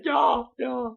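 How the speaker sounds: put-on a brief, high, comic Russian-accent shout; mock Russian. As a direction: bark a quick Russian-accent yeah. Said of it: "Just walk around going".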